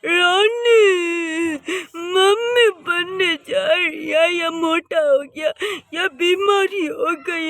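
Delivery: hammed-up sobbing cry; mock wailing. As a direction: wail it out like a heartbroken groom. Son crying in shock.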